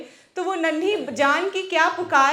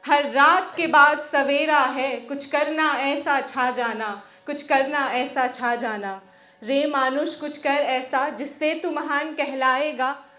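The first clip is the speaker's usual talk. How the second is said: rhythmic, declaimed Hindi verse; poem recitation. Acted. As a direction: recite it as a rousing poem, pausing between lines.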